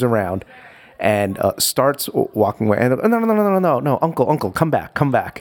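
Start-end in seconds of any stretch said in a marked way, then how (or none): 3.0-5.4 vendors pleading. Retold or imitated. Vendors calling dad back.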